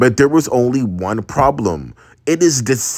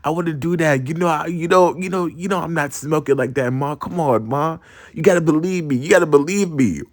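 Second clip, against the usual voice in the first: imitated wheedling denial; pleading denial; 3 semitones higher than usual. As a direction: protest your innocence to Ma. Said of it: "I just kept on denying".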